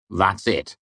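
a let-down, falling "That's it." with a sinking voice; dismayed. Acted. Chronicler, dismayed at the short page: "That's it." falls flat. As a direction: Chronicler deflating as he reads "That's it.".

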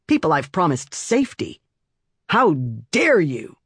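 outraged protector; angry scolding. Acted. Aunt scolding the child.

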